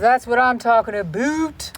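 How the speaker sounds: put-on Canadian accent. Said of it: "that was my Canadian, um, accent".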